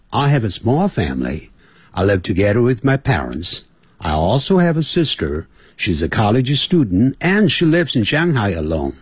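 practised, connected read-aloud with little pausing; fluent demo reading. Shown as a demonstration. Teacher showing learners an advanced reader's level, fluent connected reading. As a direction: run the sentences together smoothly and evenly. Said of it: "以我现在的程度来念".

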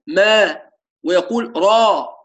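ما thin and را full; good letters. Shown as a demonstration. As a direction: set light ما against heavy را. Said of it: "برضو ممتازة".

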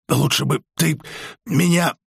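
сдавленная, прерывистая хриплая речь; выдавливай слова с хрипом, с паузой; хрипя. A narrator's reading. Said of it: "прохрипела Анге". (хрипя)

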